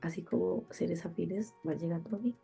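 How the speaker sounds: stuffed-up nasal voice; blocked nose. Real, not acted. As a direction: talk through a blocked nose. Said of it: "voz de nariz tapada". (voz de nariz tapada)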